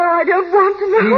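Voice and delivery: pleading as it breaks toward a scream; near hysterical plea. Acted. Wife shutting out the housekeeper's words, near hysterical. Wife refuses to hear more.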